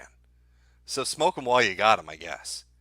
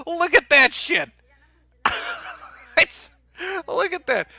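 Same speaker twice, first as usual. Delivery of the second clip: incredulous exclaim; 5 dB louder than usual. Real, not acted. Reacting to barricaded doors.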